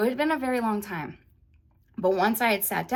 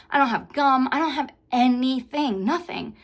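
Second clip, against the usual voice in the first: higher and louder, rising panic; panicking on the plane with no gum or candy, higher and louder; freaking out; 7 semitones higher, 8 dB louder than usual. Retold or imitated. Retelling a panic attack on the plane, frantic. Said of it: "like, freaking out".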